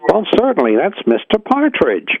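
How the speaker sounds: lightly acted receptionist, high-pitched and slowing; hotel receptionist. Receptionist answering a confused guest, high obliging voice.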